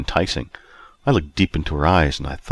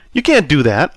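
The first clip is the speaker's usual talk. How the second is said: higher, louder snapped retort; 9 semitones higher, 5 dB louder than usual. A narrator's reading. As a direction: snap it back sharply. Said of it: "I snapped".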